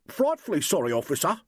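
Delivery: imitating a posh English gent; dude voice. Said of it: "in a real dude voice".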